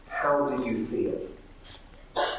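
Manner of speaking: slow the question right down; slow and soft. Shown as a demonstration. Repeats question slowly and softly.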